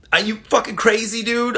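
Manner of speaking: high, loud mock disbelief; incredulous. Refusing Gerard's request, in loud incredulous disbelief. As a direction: throw it back at him, amazed.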